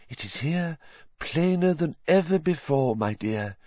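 foretell his doom dramatically; ominous prophecy. Acted. Trelawney foretelling Harry's doom, hushed high.

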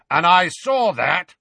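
high, loud, irritated jab; irritable. A narrator's reading. Moody catching the witch rolling her eyes, irritable. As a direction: throw it back crossly. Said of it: "he added irritably".

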